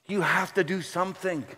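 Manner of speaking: high, loud frantic plea to God; begging God for help, near panic; desperate prayer. Retold or imitated. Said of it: "He says, "God".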